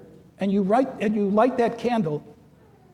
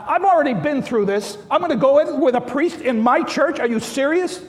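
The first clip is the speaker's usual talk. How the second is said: outraged saint; 4 semitones higher, 4 dB louder than usual. Retold or imitated. Saint Nicholas voiced, outraged at Arius.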